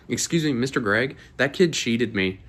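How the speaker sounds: put-on a lightly squeaky, slow, whiny kid tattling; squeaky tattletale kid. Young boy tattles to the card shop guy, mock squeaky whine. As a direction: play a little kid telling on someone, dragging the words a bit. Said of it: "using my little squeaker voice in, like, a tattletale accent".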